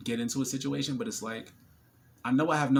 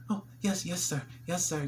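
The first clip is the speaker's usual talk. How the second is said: higher, giggly "yes, sir"; imitating the flirty clerk; 7 semitones higher than usual. Dentist receptionist to him, smitten. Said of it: "She just".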